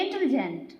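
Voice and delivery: इंटेलिजेंट said fast in one breath, no gaps between syllables; rushed wrong way. Shown as a demonstration. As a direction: run इंटेलिजेंट together quickly as the wrong example. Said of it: "ये बिल्कुल wrong होता है". (इंटेलिजेंट को तेज़ी से, बिना रुके एक साँस में बोलना)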